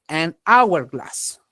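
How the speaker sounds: "an hourglass" linked without any H; silent H. Shown as a demonstration. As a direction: say "an hourglass" with the N running into the vowel. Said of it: "no se pronuncia". ("an hourglass" con la H muda)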